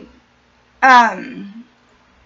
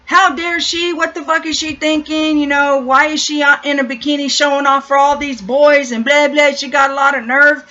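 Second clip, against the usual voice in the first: catty gossip; 2 semitones higher than usual. Retold or imitated. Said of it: "sitting up there degrading that woman".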